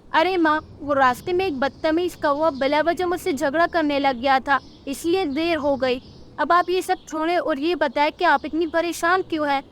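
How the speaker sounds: a daughter brushing it off, then curious; young chick explaining. Acted. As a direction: chick telling mother why she's late.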